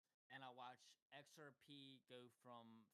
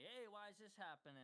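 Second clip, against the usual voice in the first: higher-pitched mock questioner; put-on higher voice, mildly mocking; imitated pestering asker; 10 semitones higher than usual. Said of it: "I have someone come up to me".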